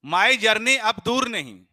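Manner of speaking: very slow, loud, high recital. Shown as a demonstration. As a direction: drag each word out for the class. Teacher recites mnemonic slowly.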